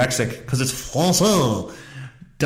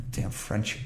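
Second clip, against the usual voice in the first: whispered, much softer grumble; muttered aside; 5 semitones lower, 11 dB quieter than usual. Real, not acted. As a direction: mutter it under your breath. Mutter after failed name.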